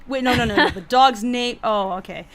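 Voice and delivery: loud, high, tangled self-correction; confused rambling. Retold or imitated. Friend untangling cat and dog names, loud and confused. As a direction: think out loud, confused, then get it. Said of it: "I was just like".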